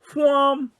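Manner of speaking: "Fwam" high and sharply falling, like a whoosh; the woman demonstrates the way to say "Fwam"; action-word exclamation. Acted. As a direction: fire "Fwam" off like a rocket leaving. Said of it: "they'd be off again".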